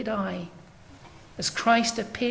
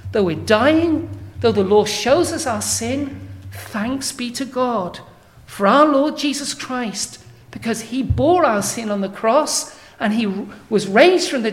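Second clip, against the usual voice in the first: rising, swelling proclamation, some words slowed; triumphant quote. Acted. Preacher voicing Paul's thanks to God, triumphant and building. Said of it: "but then he says".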